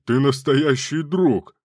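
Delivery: slow, loud sarcastic praise; ironic. A narrator's reading. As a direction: drag out the mock praise. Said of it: "что это была ирония".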